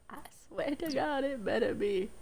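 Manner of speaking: whispered oath. Real, not acted. Muttered threat.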